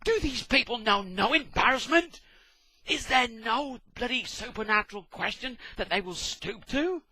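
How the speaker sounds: loud, high cry of despair; a loud outraged wail, then ranting; exasperated shout. Retold or imitated. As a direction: howl at the heavens. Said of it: "I'm going".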